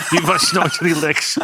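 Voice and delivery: die was nooit relaxed, slowly through a laugh. Real, not acted. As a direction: let the laugh break into the words. Joke about nervous goalkeeper. (lachend en langzaam uitgesproken)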